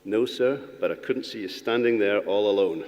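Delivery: lightly put-on American drawl; imitated American drawl. Schoolboy answering his maths teacher, imitated American drawl. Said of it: "he said in his drawl".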